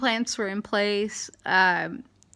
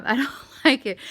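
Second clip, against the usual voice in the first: put-on little girl voice; 4 semitones higher, 4 dB louder, faster than usual. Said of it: "the little girl that was like".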